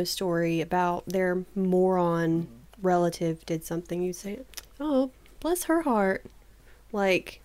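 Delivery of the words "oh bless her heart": higher-pitched mock sympathy; fake sympathy. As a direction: say it as if you pity her, insincerely. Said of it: "basically express fake sympathies".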